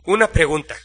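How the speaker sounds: winded, in short broken phrases; out of breath. A narrator's reading. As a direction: catch your breath between brief apologetic phrases. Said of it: "con voz agitada y falto de aire". (voz agitada, falto de aire)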